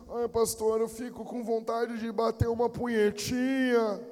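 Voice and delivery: drawn-out sing-song imitation of a church member; mock whiny confession. Church member confessing temptation to pastor, mock whine. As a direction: whine it slowly, making fun of him.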